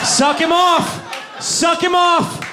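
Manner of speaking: high, slow shouted urging with a laugh; manic shout. Acted. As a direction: yell it like a crazed counselor. Counselor mock-urges, shouting.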